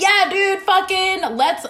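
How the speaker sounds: laughing with a friend about the absurdity; laughing along. Retold or imitated. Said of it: "It's just like".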